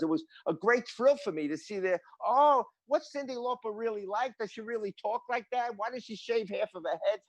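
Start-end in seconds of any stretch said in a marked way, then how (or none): 2.3-7.2 lightly voiced eager child, higher; a hint of an excited kid asking questions; curious kids. Sick kids quizzing the drummer about a singer, lightly voiced eager child.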